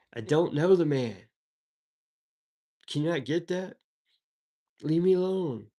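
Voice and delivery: exasperated denial. Acted. Peter angrily denies Jesus.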